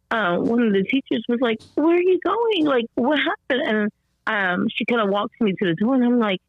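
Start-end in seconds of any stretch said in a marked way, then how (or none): 1.8-3.6 imitated surprised teacher. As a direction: act a startled teacher calling after her.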